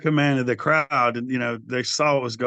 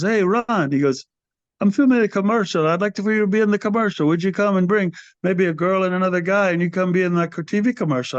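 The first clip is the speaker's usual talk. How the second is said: lightly voiced shop owner, pitched higher; a mock higher voice for the mall store guy; imitating shop owner Jay; 5 semitones higher than usual. Store owner Jay asking the singer to do a commercial, lightly imitated in a higher voice. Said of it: "Southeastern guy, uh, owned it".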